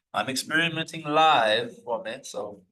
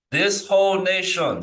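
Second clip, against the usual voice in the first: 1 Manetho quote; 5 semitones higher, 6 dB louder than usual. Retold or imitated. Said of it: "this is Manetho speaking".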